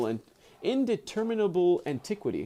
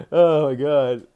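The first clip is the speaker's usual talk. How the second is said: laughing exclaim; 8 dB louder, slower than usual. Real, not acted. Laughing at her dog.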